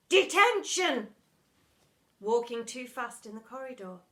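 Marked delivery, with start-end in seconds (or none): 0.1-1.1 loud, slow detention; barked verdict. Acted. Miss Seeth punishing cheeky pupil, barking. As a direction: slam the word down.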